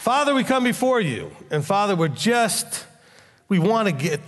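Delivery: a pastor leading the congregation in prayer. Acted. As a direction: pray humbly for the group. Leads prayer.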